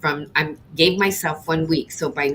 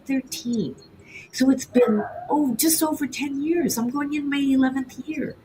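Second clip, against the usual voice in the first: higher, emotional, heartfelt confession; retold tearfulness; 5 semitones higher than usual. Baker confessing heartbreak over saying goodbye, tearfully heartfelt. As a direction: pour it out with a touch of tears. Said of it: "in tears, and I said".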